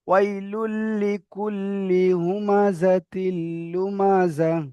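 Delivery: slow joined reading of ওয়াইলুল লিকুল্লি হুমাজাতিল লুমাজা; recitation demo. Shown as a demonstration. Teacher demonstrating the verse for students, slowly. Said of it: "তারপরে আয়াতটা দেখেন".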